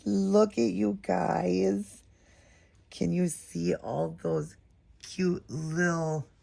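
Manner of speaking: high and drawn out, savouring each word; slow gushing awe. Real, not acted. Showing viewers the tiny outfit, high slow awe. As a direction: coo over the tiny details.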